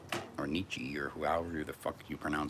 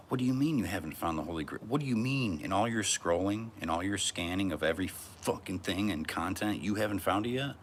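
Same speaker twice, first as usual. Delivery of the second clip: mock disbelief; 4 semitones higher, 3 dB louder than usual. Feigned disbelief at the viewer.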